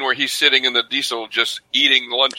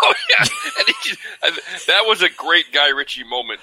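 amused recognition; 4 semitones higher than usual. Real, not acted. Cohost delightedly recalling a favorite movie scene, laughing. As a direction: burst out laughing, then carry on talking.

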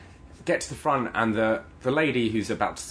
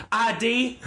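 curt, pitched-up mock bark; imitated bark; 9 semitones higher than usual. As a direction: demand it like an irritated cashier. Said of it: "just barks, like, I D".

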